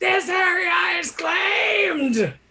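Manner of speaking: very high, shrill yell. A player's character charges in with an axe to scare them; yelling in Giant. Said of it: "Go and yelling in giant".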